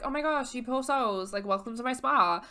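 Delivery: high-pitched gushing spa hostess; Cece. Retold or imitated. Spa owner greeting stranded guests, gushing. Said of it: "And this woman, Cece, is like".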